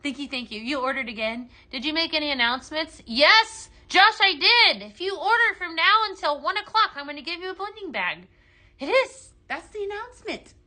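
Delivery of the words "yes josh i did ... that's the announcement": excited announcing. Real, not acted. Answering viewer about announcement.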